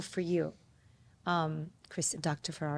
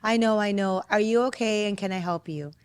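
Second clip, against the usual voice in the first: lightly mocking kid, retold; mildly mocking; 4 dB louder than usual. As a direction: imitate a child's sing-along parroting. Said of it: "mocking me a little bit".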